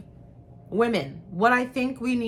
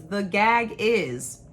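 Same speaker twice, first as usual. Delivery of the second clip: slow, leaning hard on "gag"; "the gag is" dragged slowly; drawn-out quote; much slower than usual. Retold or imitated. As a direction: stretch "gag" out for effect. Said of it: "She said".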